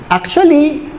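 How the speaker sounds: a hint of posh Taglish on the sign; lightly voiced socialite. Preacher reads out a fancy fence owner's sign, lightly voiced socialite. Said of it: "Social yung may-ari ng bakod eh".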